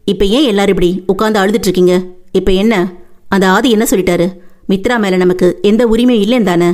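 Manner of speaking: a hint of a heavy, stern voice. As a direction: scold the family firmly. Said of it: "கனமான குரலில்".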